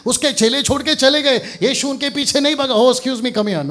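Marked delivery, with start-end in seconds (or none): 2.7-3.7 raised, louder imitation of calling someone back; mock calling-after. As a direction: call after deserters in playful pretence. Acting out Jesus not chasing followers.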